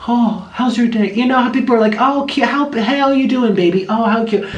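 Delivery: high, sing-song cooing at a horse; cooing baby talk. Retold or imitated. Lady coos sweetly at a horse on the farm road, high baby talk. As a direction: coo like talking to a baby animal.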